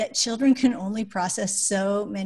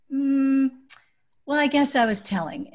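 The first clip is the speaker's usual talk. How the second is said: put-on pondering child; 5 semitones higher, 4 dB louder than usual. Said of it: "he might pause and say".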